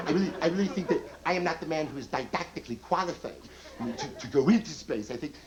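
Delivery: lightly done neurotic stammering comic; Woody. Retold or imitated. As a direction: stammer and dodge nervously. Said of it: "hey, hey, Woody".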